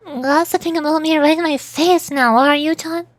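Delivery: mildly acted drunk accusation; tipsy confronting Granny. Voices drunk Granny character.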